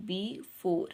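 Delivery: BEFORE in two separate beats, be, fore; split into syllables. Shown as a demonstration. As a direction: break "before" after be, with a short pause. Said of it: "ये भी two syllable word है".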